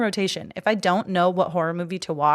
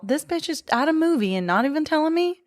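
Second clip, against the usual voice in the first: indignant quote; 9 semitones higher than usual. Retold or imitated. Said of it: "I'm all".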